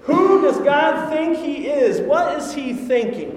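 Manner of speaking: slow, mock-indignant outburst; indignant grumble. Israelites grumbling at God, mock-indignant slow outburst. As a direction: stretch it out like an offended crowd. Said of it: "They're grumbling and complaining".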